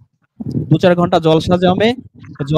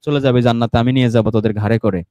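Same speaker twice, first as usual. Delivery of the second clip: imitating the pir; 4 semitones lower than usual. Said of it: "ওই বাবা এসে মনে করেন".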